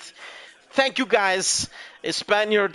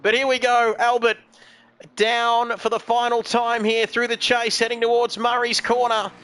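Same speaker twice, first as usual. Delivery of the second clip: steady, projected motorsport play-by-play; live race commentary; 3 semitones higher than usual. Real, not acted. Commentator calls Albert down through the chase, live race commentary. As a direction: call the car through the final lap.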